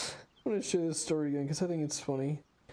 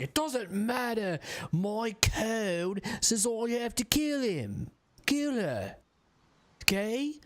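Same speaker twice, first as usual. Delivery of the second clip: mock stubborn paladin; 9 semitones higher, slower than usual. Mocking Wyll's stubborn code.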